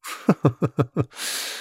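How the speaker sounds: quiet sly chuckle; soft mocking laugh. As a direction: laugh softly at him. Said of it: "чем только рассмешил человека". (насмешливый смешок)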